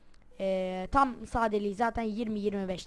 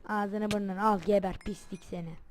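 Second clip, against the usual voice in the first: angry taunting. Real, not acted. Gamer taunting the mob he just beat, angry gloating. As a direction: gloat angrily over the beaten mob.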